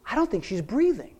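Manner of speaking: softly voiced, imitating a whisper; retold whisper. Crew member to the director on set, hushed retold whisper. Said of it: "And he whispers".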